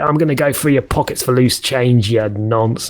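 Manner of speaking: cockney street-mugger shark. Pretend. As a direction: threaten playfully in put-on cockney. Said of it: "I'm a cockney shark".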